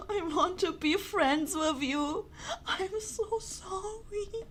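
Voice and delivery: slow, tearful plea; close to tears. Real, not acted. Player wanting friendship with the narrator, close to tears. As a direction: draw it out through tears. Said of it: "I'm about to cry".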